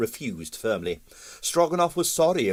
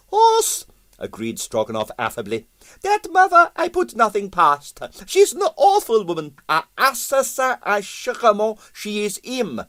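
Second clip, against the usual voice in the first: put-on higher, Russian-accented, musing aloud and pleased with himself; pompous Russian impresario; 11 semitones higher than usual. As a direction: talk it through like a vain theorist. Stroganoff voiced by narrator.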